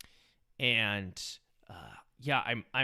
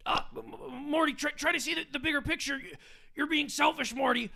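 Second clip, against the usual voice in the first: higher stammering mad-scientist voice, half-whispered in places; rambling self-important scientist, brushing it off; Rick impression; 11 semitones higher than usual. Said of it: "doing a Rick and Morty impression".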